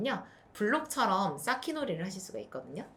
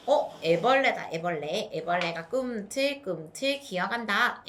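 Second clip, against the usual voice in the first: playful discovery; 3 dB louder, slower than usual. Shown as a demonstration. 아이에게 애벌레 놀이.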